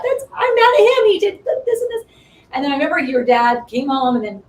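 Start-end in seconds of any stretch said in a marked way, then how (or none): 0.0-2.0 high, loud, mock indignation; retold fury, half laughing; indignant. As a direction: list his faults in a huff. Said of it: "I thought".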